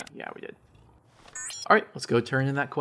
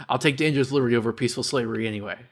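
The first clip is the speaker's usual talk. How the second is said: ghoul voice; faster than usual. Acted. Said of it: "to do the ghoul voice".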